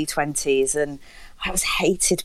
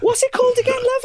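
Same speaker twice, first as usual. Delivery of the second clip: very high, giggling question; laughing, high; 3 dB louder, faster than usual. Retold or imitated. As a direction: ask through a laugh. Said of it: "he was like".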